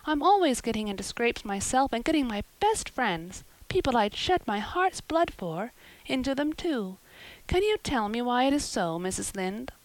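put-on girl pouring out her woes; lightly voiced eager girl.

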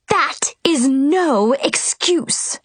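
shrieking. A narrator's reading. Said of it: "the Queen shrieked".

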